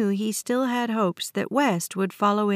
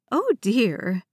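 smiling voice. A narrator's reading. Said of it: "exclaimed in a smiling voice".

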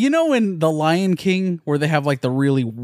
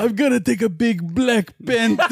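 higher, put-on actor impression; Forest Whitaker; 6 semitones higher than usual. Impressionist capping the toilet joke, put-on Forest Whitaker voice. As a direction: work the catchphrase into a crude joke. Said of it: "my impression of Forrest Whitaker".

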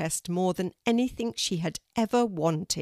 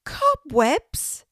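loud high cry of "Cobwebs!"; shocked disbelief, cry it out; dismayed exclamation; 10 semitones higher, 8 dB louder than usual. A narrator's reading. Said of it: "she exclaimed".

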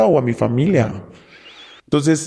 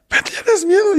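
taunting captor. Retold or imitated. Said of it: "Y le pegaban".

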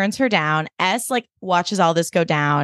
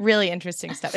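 Donald Trump; 4 dB quieter than usual. Shown as a demonstration. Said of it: "You just sort of pause while you're talking".

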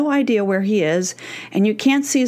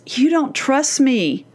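slow, higher, understated hurt intensity; intense, serious; 4 semitones higher, slower than usual. Acted. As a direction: say it slowly as a deadly serious daughter. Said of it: "with all this intensity and seriousness".

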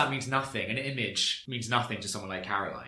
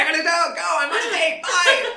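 much higher, louder, breezy exit line; mock flighty exit; 12 dB louder than usual. Mimicking Kelly fleeing an argument, hammed up and much higher. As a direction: toss it off like a dramatic flounce out.

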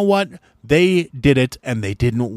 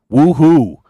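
sarcastic cheer; 2 semitones higher, 8 dB louder than usual. Retold or imitated. Mock cheer about weekend drinking.

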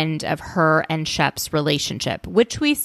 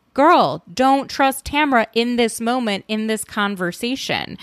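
exasperated call-out; 5 semitones higher than usual. Real, not acted. Calling out to cast member.

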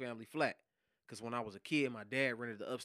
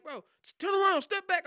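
much higher, louder command; retold police yell; 9 dB louder than usual. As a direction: order him back hard. Quotes agent shouting orders.

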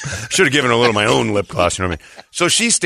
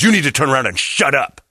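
scolding command; 2 semitones higher than usual. Retold or imitated. Friend snaps at apologizer, retold.

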